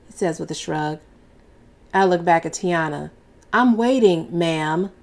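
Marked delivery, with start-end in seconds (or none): 3.5-4.9 母亲严厉地等女儿回答; stern demand. Acted. Mother demands answer from daughter.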